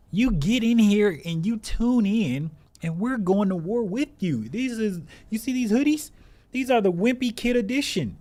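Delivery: high, loud, pumped-up hype speech; rally the troops like a cheesy superhero; over-the-top battle pep talk; hyped rallying cry. Pretend.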